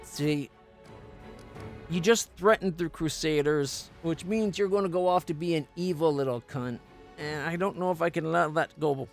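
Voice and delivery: usual speaking voice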